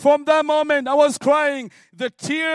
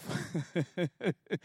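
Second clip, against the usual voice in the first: laugh; 5 semitones lower, 11 dB quieter than usual. Retold or imitated. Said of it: "And I began to laugh".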